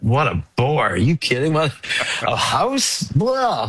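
scoffing. Retold or imitated. Scoffing at advice to buy house.

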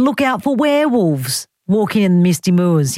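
"moors" as "mooz", mock British accent; lightly affect British vowels on "moors"; put-on British accent. Host reading listeners' notes on werewolves, mock British accent. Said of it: "have to say that word with an accent".

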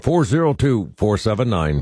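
ordinary talk

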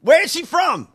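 high, loud disbelieving laugh-shout; loud amused disbelief; incredulous laughing outburst. Real, not acted. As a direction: demand an answer while laughing. Mock outrage at accent.

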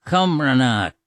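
Cumrana as kum-ruh-NAH; Irish pronunciation. Shown as a demonstration. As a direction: repeat Cumrana clearly, syllable by syllable. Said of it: "comes from cumrana".

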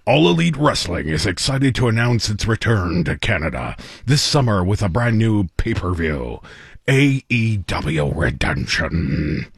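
booming ring announcer hype; wrestling announcer voice. Acted. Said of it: "in my best wrestling announcer voice".

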